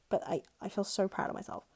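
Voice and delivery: normal talking voice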